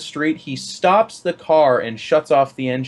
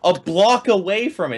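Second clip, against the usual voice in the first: laughing complaint; 8 semitones higher, slower than usual. Retold or imitated. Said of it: "then we're like".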